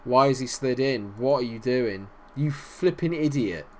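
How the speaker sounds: ordinary delivery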